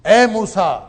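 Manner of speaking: calling out. Acted. Voicing the divine call.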